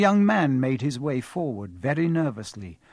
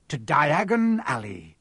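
grand welcome; slower than usual. Acted.

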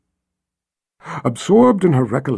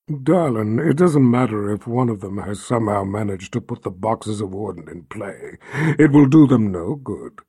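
rumbling; 3 dB louder than usual. Acted. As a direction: rumble like bottled thunder. Jagang speaks to Alicia.

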